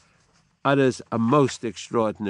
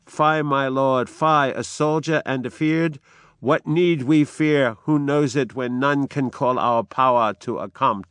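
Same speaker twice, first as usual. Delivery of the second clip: dramatic reading; 3 semitones higher, 3 dB louder than usual. Acted. Lady Macbeth scorning her soldier husband, dramatic reading. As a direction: chide a frightened husband.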